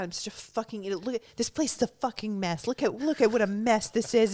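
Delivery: rising self-berating rant; imitated self-berating. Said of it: "like, say".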